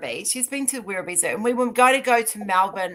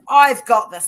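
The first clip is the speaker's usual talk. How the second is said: loud, higher mock-confident burst; hyped up; 4 semitones higher, 12 dB louder, slower than usual. Joke teller voices Pinocchio entering the liar competition, hyped up. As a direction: pump it up like an eager contestant. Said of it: "he's all hyped up".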